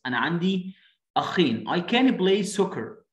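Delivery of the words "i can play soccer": slow model reading. Shown as a demonstration. Reading child's line slowly.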